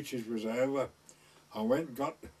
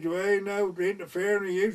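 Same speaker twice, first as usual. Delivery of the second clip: put-on drunken retort; 6 semitones higher, 4 dB louder than usual. Drunk lad shouts back.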